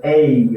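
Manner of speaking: "ei" strong on e, sliding to weaker i; falling diphthong. Shown as a demonstration. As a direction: glide down through "ei", e to i. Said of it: "eu faço assim". ("ei" com e forte caindo para i fraco)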